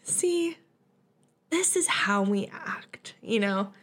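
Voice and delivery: whispered smug aside; whispered, pleased remark about good manners. Retold or imitated. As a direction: whisper it like a secret told to a friend. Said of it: "And I was like".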